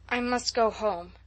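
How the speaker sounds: slow, dull and stubborn; stupid but determined. Acted. Dazed girl stubbornly refusing her friend's tea, slow and dull. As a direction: plod through it, refusing to budge. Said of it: "repeated Diana stupidly but determinedly".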